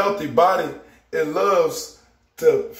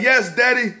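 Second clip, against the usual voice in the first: a dad lightly voicing his son's excitement over the berry drink; voicing his excited son; 3 semitones higher than usual. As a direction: play his excited young son praising Daddy. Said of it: "Elisha is so excited, like".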